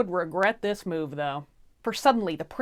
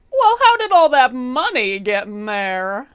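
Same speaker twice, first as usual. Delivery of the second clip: surprised king; 5 semitones higher, 9 dB louder than usual. Acted. King finds money in cask.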